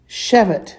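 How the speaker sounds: "Shevet" with the accent on "She"; SHE-vet, second syllable light; stress on first syllable. Shown as a demonstration. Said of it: "it falls on the first".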